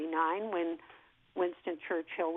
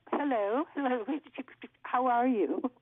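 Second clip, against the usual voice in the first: a light, slightly higher lilting silent-star voice with a faint stammer on hello; Marion Davies impression; 3 semitones higher than usual. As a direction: mimic a thirties film star's careful, lyrical greeting. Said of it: "she had a slight stutter".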